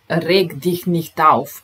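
slow, loud reg dich nicht auf; calm-down command, loud and slow. Shown as a demonstration. Teacher tells an upset person to calm down, loud and slow. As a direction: tell a friend firmly to calm down.

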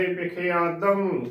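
ਵਿਖਿਆਦਮ drawn out slowly as "be-khe-aa-dam"; slow model of ਵਿਖਿਆਦਮ with falling end; correct pronunciation. Shown as a demonstration. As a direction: stretch ਵਿਖਿਆਦਮ part by part. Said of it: "ਉਚਾਰਨ ਕਰਨਾ ਹੈ".

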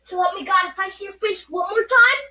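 loud, real warning; angry threat. Real, not acted. Threatening the one causing trouble, angry and loud.

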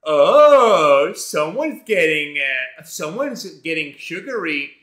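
put-on a loud "Oh", then slow, nosy old-lady teasing; lightly voiced busybody grandma, drawn out; a hint of a prying old lady teasing about cookies; mock nosy grandma. Mocking a nosy grandma at checkout.

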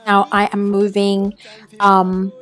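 put-on British accent. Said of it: "completely in a British accent".

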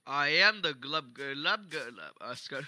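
slow, low gurgling fish croak; gurgling fish man croak. Pretend.

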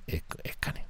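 whispered correction of escáner; whispered retry. Real, not acted. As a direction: whisper escáner to fix the slip. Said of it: "Me sale el acento de pueblo".

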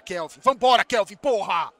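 loud, forceful yell at a player; real sideline holler; urging shout. Real, not acted. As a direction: shout him into action.

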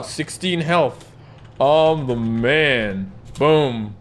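slow, swaggering brag; lightly voiced cocky chat player; cocky boast. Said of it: "that guy just said it on the, in the chat".

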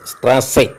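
"Strasse" with long ah and hissed s; double S sound. Shown as a demonstration. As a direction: demonstrate "Strasse" with a clear double s. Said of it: "pronounced as". ("Strasse" ഇരട്ട എസ് ശബ്ദത്തോടെ)

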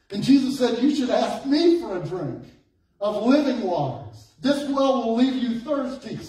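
animated preacher voicing a dialogue; preaching Bible story. Real, not acted. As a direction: retell the scripture exchange with preaching energy.

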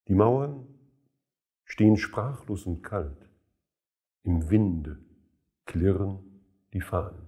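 measured poetry reading with pauses between phrases; solemn recital, line endings falling away; poem recitation. Acted. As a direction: recite the verse deliberately, letting each image stand.

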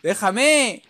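mock outraged shout at the opponent; annoyed yell. Real, not acted. Gamer yelling at Gohan to stop grabbing, mock outrage. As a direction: snap at him to let go.

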